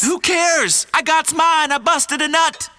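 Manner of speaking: high-pitched put-on Black American accent; mock Black American accent. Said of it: "don't use that black scent again".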